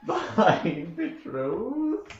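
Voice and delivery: slow, amused "my betrothed"; half-laughing noble flirt; laughing courtly address. Acted. Player addresses fiance in character.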